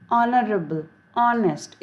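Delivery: honorable and honest with no h sound; silent h. Shown as a demonstration. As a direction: start honorable on "on". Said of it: "एच silent है". (honest में एच नहीं बोलना)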